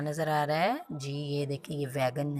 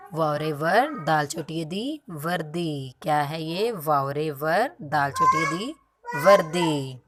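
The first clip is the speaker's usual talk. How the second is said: chanted letter-by-letter spelling, building louder; sing-song spelling; 4 dB louder than usual. Shown as a demonstration. Teacher chanting the spelling for kindergarten kids. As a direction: chant the letters for the children to repeat. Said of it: "वो अलग से लिखेंगे".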